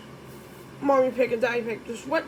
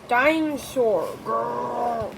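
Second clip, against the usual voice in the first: George's dinosaur growl; much slower than usual. Pretend. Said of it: "he could say one word".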